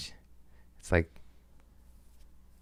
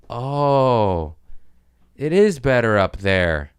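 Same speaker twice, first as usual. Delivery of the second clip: awed delight; 4 semitones higher than usual. Retold or imitated. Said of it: "you go".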